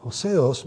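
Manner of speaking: "hoseos" spelled out slowly, syllable by syllable; careful Greek word. Shown as a demonstration. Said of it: "Where agios means different".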